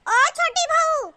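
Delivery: high, slow, insistent summons; drawn-out call. Acted. Mother-in-law to unanswering younger daughter-in-law, insistent drawn-out call. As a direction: stretch it out, falling at the end.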